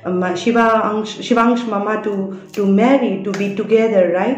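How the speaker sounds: retold shouting. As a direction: hammer each accusation. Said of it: "In Hindi, she was shouting at him".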